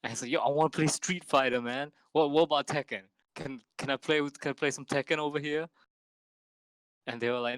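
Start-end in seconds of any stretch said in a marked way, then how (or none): 0.3-5.7 lightly voiced gamer bro, pushy; a hint of a cocky bro; douchey bro voice. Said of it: "This, this is how he was talking".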